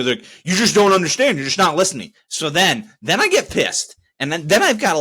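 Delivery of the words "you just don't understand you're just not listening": mocking condescension. Mocking the agents' condescending reply.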